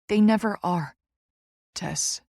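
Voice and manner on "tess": soothing. A narrator's reading. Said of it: "he soothes".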